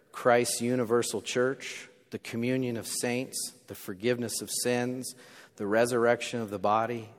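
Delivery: lightly voiced congregational recitation of the creed; a touch of solemn liturgical recitation; recited creed. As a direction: read it out together, measured and even.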